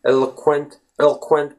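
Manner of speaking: "eloquent" jumping from el nearly straight to kwent; bypassed O. Shown as a demonstration. Teacher jumping from L to Q, "eloquent" with vanishing O. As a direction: glide over the O in "eloquent", leaving barely any vowel. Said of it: "bypassing the O letter".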